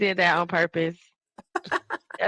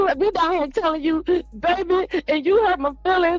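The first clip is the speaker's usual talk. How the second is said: high mock complaint; 7 semitones higher than usual. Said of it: "retelling her complaint".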